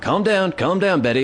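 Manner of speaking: lightly acted hushing of a dog; exasperated owner. Owner to barking dog Betty, exasperated.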